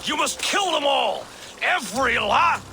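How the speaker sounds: high-pitched, overexcited order, cut off mid-word; overdone command. Acted. Fake thane ordering a soldier, overzealous command. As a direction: get carried away, then break off.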